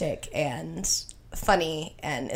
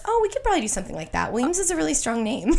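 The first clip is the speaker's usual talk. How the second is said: deadpan reply; 7 semitones higher, faster than usual. Retold or imitated. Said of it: "Brendan, straight face, goes".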